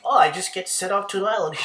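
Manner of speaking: high, loud, fast mocking imitation of a clueless guy; high mock voice sneering at the predator; mocking dopey voice. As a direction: squeak it out like a clueless dope, then laugh. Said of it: "this dude's like".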